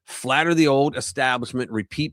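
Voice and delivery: punchy, animated commentary read; article narration. Acted. Streamer reading political commentary to viewers, lively emphatic narration. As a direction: read it out with emphatic swings in pitch.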